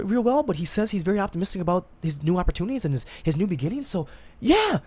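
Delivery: high, chirpy pretend catch-up; mock friendly gossip. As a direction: sound upbeat and caring about a friend's news. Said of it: "be like".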